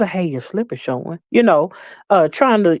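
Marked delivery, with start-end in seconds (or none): 0.1-1.2 soft, hushed, discreet half-whisper. Describing older women telling someone their slip shows: imitating a half-whisper. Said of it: "reach over in your ear and whisper".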